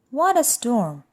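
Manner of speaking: light chirpy bird voice; twittering bird voice. Acted. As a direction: twitter it like a wren. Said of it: "twitters wren".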